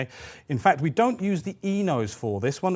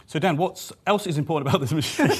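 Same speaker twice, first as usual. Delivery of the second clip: laughing; 4 semitones higher than usual. Real, not acted. Asks while laughing.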